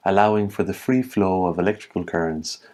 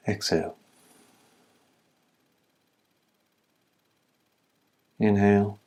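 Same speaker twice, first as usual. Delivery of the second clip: calm, even instructions with long pauses; level-toned breathing-exercise guide; guided meditation. Acted. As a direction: lead them steadily through each breath.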